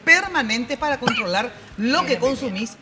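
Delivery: upbeat radio announcer selling a phone plan; radio host reading a sponsor spot; live ad read. Acted. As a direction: pitch the offer to listeners, leaning on each quieras.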